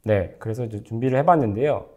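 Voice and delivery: normal talking voice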